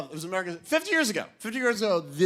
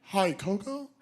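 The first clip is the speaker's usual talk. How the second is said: gentle bad-news voice; 3 semitones higher, 4 dB quieter than usual. Keepers gently breaking news to Koko.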